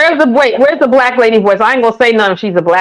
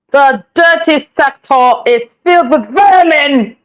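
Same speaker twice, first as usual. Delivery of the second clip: mock British accent. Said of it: "Using an accent in a sentence".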